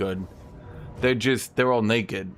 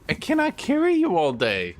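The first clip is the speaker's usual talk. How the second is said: higher, exasperated scolding, "carry" stressed; fed-up owner scolding her kitty; exasperated to cat; 9 semitones higher, 3 dB louder than usual. Real, not acted. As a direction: tell off a clingy cat, half laughing. Repeats line to cat.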